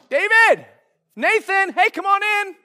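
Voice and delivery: high-pitched acted hello between friends; hammed-up, high welcoming call; hearty greeting.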